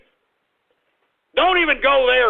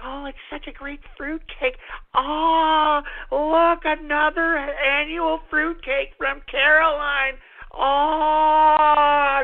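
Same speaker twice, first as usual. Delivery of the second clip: fake happy; 3 semitones higher, slower than usual. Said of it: "be all happy whenever she comes over and be like".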